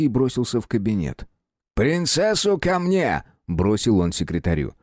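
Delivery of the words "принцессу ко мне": sharp urgent order, pitched high; urgent command. Acted. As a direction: call for her at once. Inquisitor summons princess urgently.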